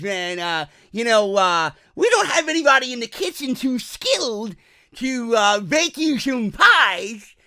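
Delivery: employee explaining no dessert; lazy buffet employee. Acted. Employee voice again.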